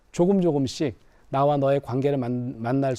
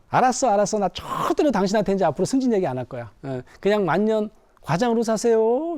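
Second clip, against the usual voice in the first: sarcastic wife; 5 semitones higher than usual. Acted.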